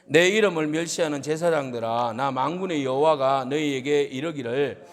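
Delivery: measured, even recitation of scripture; scripture reading. A narrator's reading. Preacher leading the congregation in a verse, measured scripture reading. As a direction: read the verse out solemnly and steadily.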